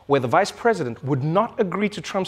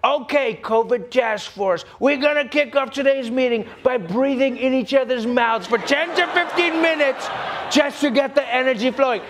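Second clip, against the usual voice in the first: Trump impression; 4 semitones higher than usual. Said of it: "Trump was like".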